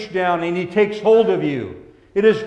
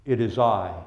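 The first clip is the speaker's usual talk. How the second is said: gentle; 7 semitones lower, 5 dB quieter than usual. A narrator's reading. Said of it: "by gently telling you".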